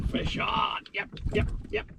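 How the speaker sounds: whispered, hushed; fishing whisper. Real, not acted. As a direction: whisper so the fish won't hear. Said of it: "whispering while fishing".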